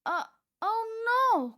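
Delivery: high, loud, slow dread; panicked cry. A narrator's reading. Fluffy heading for a wood chipper, crying out in panic. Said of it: "cried Fluffy".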